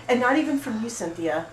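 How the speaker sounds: single out Cynthia with a hurt accusation; accusing. Acted. Beth calls out Cynthia before the group, loud and hurt.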